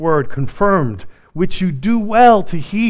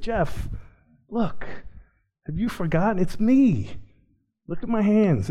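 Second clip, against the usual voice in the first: soft, slightly raised, tender appeal; hushed coaxing, lightly acted; gentle reassurance; 4 semitones higher, 8 dB quieter than usual. Jesus comforting a doubting preacher, gentle reassurance.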